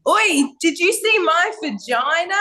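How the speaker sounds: high-pitched cheeky call-out; retold calling out. Retelling her startled shout to sparring partners.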